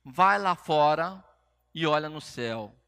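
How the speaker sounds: retold voice of God, slow and emphatic; clear command. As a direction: spell out an order clearly and firmly. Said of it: "falou de uma forma clara comigo".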